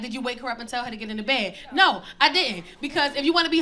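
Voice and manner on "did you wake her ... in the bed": audience's scolding question. Retold or imitated. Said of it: "some of y'all like".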